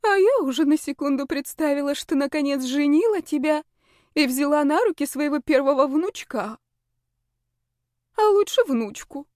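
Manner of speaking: dreamy mother. A narrator's reading.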